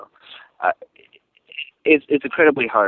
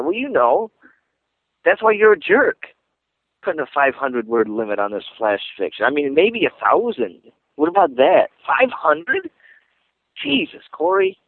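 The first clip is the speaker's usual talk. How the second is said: high-pitched, exasperated mock complaint; playful outrage, pitch jumping up; mock-angry rant; 4 semitones higher than usual. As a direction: pretend to be indignant at the host. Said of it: "I'm not really mad at you".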